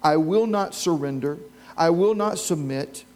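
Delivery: slow, emphatic vow, each word weighed; fierce determination. Pretend. Preacher voicing a believer's vow, slow and emphatic. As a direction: declare it like a vow you won't break. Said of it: "a fierce determination that says".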